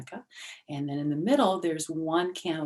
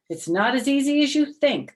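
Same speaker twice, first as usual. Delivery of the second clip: warning rabbi; 10 semitones higher, 9 dB louder than usual. Acted. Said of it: "the rabbi warned".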